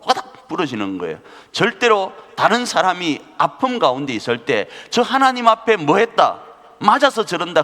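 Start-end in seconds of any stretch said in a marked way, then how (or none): 4.9-7.6 judgmental gossip. Retold or imitated.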